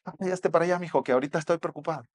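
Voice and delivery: hurried, preoccupied dismissal; acted distracted parent, mildly irritated; brushing someone off.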